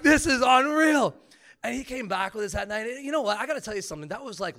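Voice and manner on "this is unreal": slow, high, loud retold wonder; amazed outburst. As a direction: stretch it out in loud disbelief. Retells own amazement at the moment.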